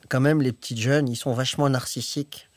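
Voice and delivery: lightly voiced grumpy old man; a hint of a grumbling old-timer. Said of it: "Je prends une voix de vieux".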